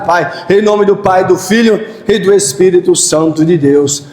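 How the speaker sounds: steady earnest praying cadence; fervent prayer. Acted. Pastor leading the church in prayer, earnest prayer voice. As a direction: pray aloud, leading the church.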